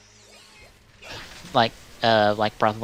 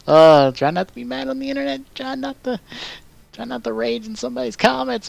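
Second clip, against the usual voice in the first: strained self-calming; 12 semitones higher than usual. Real, not acted. Telling himself to calm down.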